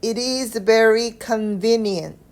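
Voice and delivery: "it is very convenient" run together slowly, no breaks between words; linked without pauses. Shown as a demonstration. Teacher showing learners how to link the sentence, slow connected reading. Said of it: "연결해서 읽어볼게요. 쉼 없이".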